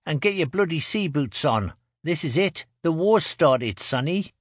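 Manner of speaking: urgent high-pitched yell. A narrator's reading. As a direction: shout orders to rouse a shipmate. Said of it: "yells Ginger".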